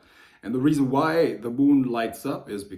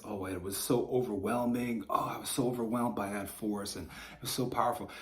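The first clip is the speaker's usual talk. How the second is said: mocking quote; 6 dB quieter than usual. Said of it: "They speak of all of these experiences".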